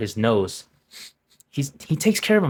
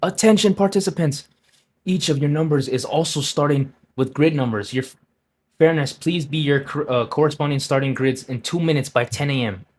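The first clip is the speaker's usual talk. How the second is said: mock announcement; 2 semitones higher than usual. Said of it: "Now we have an announcement".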